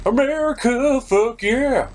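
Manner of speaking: high, loud gung-ho cheer; patriotic shout. Acted. Proclaiming America is on Fowler's side, in a loud gung-ho cheer. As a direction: belt it like a cheesy action-movie patriot.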